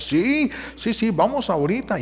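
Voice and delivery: husband eagerly accepting the doubled money; eager yes. Retold or imitated. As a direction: jump at the offer.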